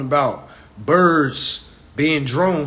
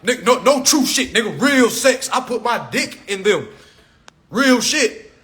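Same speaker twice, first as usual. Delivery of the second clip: mock bragging shout; 4 semitones higher than usual. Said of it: "men gotta wear this shit like a badge".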